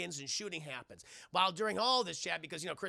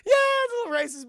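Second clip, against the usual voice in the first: high, giggling, barely getting it out; real helpless laughter in the words; talking through laughter; 8 semitones higher, 10 dB louder, faster than usual. Real, not acted. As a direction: break up laughing as you speak. Talks through laughter at own joke.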